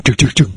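quick run of mimicked bumps; imitated thudding noise. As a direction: sound out the car bumping over him. Imitates car going over man.

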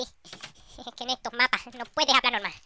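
toque fuerte a lo Chiquito; imitando a Chiquito. Shown as a demonstration. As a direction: habla como el cómico, subiendo el volumen. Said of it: "Tienes que hablar como chiquito". (imitación ligera de Chiquito)

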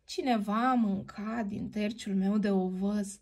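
softly, a gentle mother bear echoing; a hint of a calm mama bear. Mama bear echoes papa about her porridge, gently. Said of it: "mama urs cu vocea domoală".

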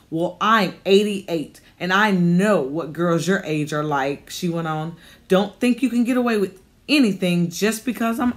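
a hint of a bossy old lady laying down the law; cranky old landlady. Old landlady orders Ashley to take the cat upstairs, stern and bossy. Narrator voices Miss Cooper.

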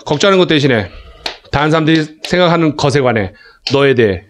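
practised, even run-through of the phrases; straight-through reading. Shown as a demonstration. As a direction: read it straight through in one fluent sweep. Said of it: "왼쪽에서 오른쪽 쭉쭉".

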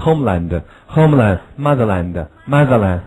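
slow, clear drill reading; lead the class. Shown as a demonstration. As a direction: read each word twice for the class to echo. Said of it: "让我们say".

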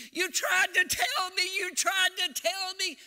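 high, loud wailing cry; retold anguished wail; imitated wailing. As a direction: act out a grieving father wailing at his pastor. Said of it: "the man was wailing".

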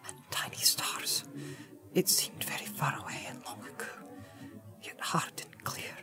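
halting whisper, growing a little stronger; low, hesitating voice. A narrator's reading. Hobbit telling the wizard his vision, hushed and hesitant. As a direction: recount the vision in a frightened, breathy hush. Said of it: "In a low, hesitating voice, Pippin began again".

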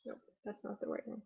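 fast whispered aside to self; whispered self-correction under the breath. Real, not acted. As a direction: hush it quickly, catching a mistake. Wrong recording played, muttered aside.

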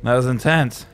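winded after a fight; panting, out of breath. Real, not acted. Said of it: "I'm all out of breath".

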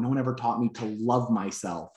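a hint of his tears; retold crying. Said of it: "And then he starts crying".

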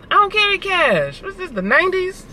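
high, scornful tease about carrying cash; mock disgust. Real, not acted. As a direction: scoff like cash is gross.

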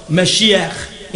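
Mashiach with a throaty final ch; Hebrew pronunciation. Shown as a demonstration. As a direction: say Mashiach the Hebrew way, "meh-SHEE-akh". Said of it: "in Hebrew, a savior".

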